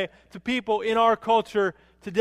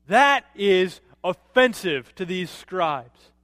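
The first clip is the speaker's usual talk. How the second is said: slow emphasis; 2 semitones lower, much slower than usual. Real, not acted. Preacher emphasizing offense.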